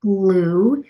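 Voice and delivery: halting word-by-word reading, sounding out; staccato. Shown as a demonstration. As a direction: read like a struggling new reader. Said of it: "read a paragraph to you in a staccato word-by-word pace".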